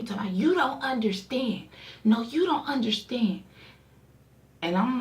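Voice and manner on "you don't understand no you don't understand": higher-pitched imitation of a frantic caller; mock screaming. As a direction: imitate his screamed protest, without full volume. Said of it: "he just started screaming at me".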